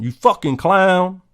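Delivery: mock angry name calling; mock insult. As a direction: hurl the insult at the clown. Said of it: "You call him".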